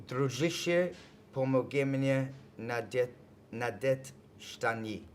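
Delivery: careful English-accented Russian; Russian phrase attempt. Shown as a demonstration. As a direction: sound out the Russian slowly. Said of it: "very bad Russian accent".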